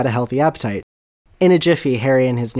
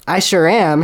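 gracious reply; 5 semitones higher, 5 dB louder than usual. Acted. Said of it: "Harry retorted graciously".

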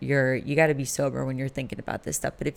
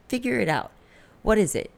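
high, exasperated demand at yourself; retold impatient self-scolding; 7 semitones higher, 4 dB louder than usual. Woman demanding answers from herself, impatient and exasperated. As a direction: push for an answer, pitch jumping up.

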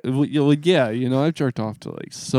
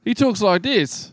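higher, slowed politician impression; Ron DeSantis impression; 9 semitones higher, slower than usual. Showing his cohost how the governor talks, a higher, slower impression. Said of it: "That's pretty good".

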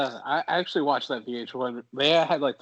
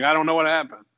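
innocent wrestler voice; 4 semitones higher, 8 dB louder than usual. Pretend. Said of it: "Just be like".

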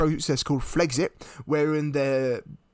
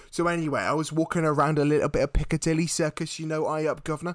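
louder, lightly put-on Cockney patter; 3 dB louder than usual. Comedian recounts walking round Piccadilly, mock Cockney. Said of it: "Am I still a Cockney?".

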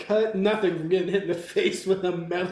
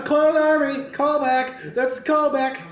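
bad mock British accent, pitched up; 6 semitones higher than usual. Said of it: "That didn't sound like him".

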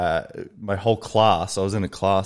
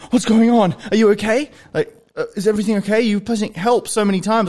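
higher, louder imitation of a fussing flight attendant; 13 semitones higher, 4 dB louder than usual. The flight attendant checking on a passenger who pressed help, higher-pitched. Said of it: "She's like".

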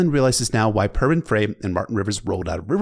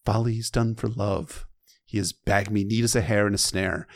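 steady, lower storytelling read of "The maid came forward"; book reading; 3 semitones lower than usual. Acted. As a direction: read it like an audiobook narrator. Reads the novel passage aloud.

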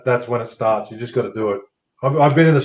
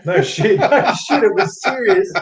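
cracking up while swearing it's true; 8 semitones higher than usual. Real, not acted. Insisting the giant knife was real.

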